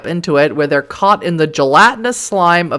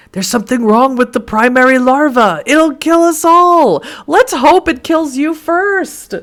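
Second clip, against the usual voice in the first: cartoon villain; 9 semitones higher, 4 dB louder than usual. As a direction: gloat like a melodrama villain. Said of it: "like Snidely Whiplash".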